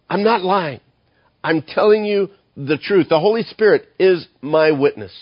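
a light touch of Paul insisting he tells the truth; earnest Paul. Acted. Paul's earnest plea voiced.

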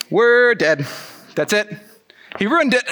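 mock panic to himself, voice shooting up; panicked dread. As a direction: let the alarm climb as it sinks in. Panic after Peter's bold answer.

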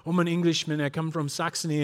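lightly imitated English accent. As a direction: play an Englishman introducing himself. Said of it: "talk to people with an English accent".

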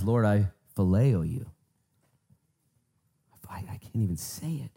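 ashamed reply. Acted. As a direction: admit it haltingly, ashamed. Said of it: "I'm so ashamed of myself".

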